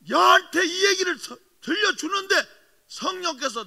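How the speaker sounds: loud, high, near tears; voice breaking. Real, not acted. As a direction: choke up as the memory hits. 감정 북받친 고백. (성령의 꾸짖음을 떠올리며 울먹이는 목소리)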